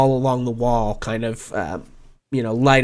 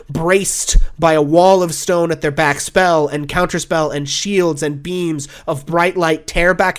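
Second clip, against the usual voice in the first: dramatic scene setting; 2 semitones higher than usual. Acted. The game master sets the battle scene for the players, urgent. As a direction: paint the battle with rising urgency.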